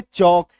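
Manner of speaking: चॉक with no L before the K; silent L. Shown as a demonstration. Teacher reading chalk after cutting the L, silent L. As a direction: say चॉक, open vowel straight into K. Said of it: "अब पढ़ो इसको".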